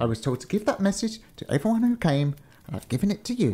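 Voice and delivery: high-pitched, defensive gatekeeper; warder. Acted. Warder excusing himself to the giant, high character voice.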